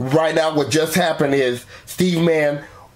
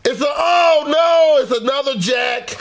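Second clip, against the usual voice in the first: high shouted game-show dismay; excited; 7 semitones higher than usual. Real, not acted. Host reveals losing card.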